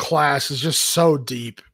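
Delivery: normal talking voice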